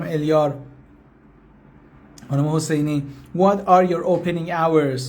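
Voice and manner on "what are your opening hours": drawn-out English question; slow model question. Shown as a demonstration. Teacher saying the question slowly before asking for a translation. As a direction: spell it out slowly for students.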